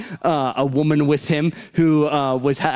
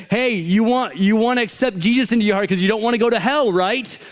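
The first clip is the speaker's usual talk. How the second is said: mock sales pitch; 5 semitones higher than usual. Mocking fear-based gospel pitch.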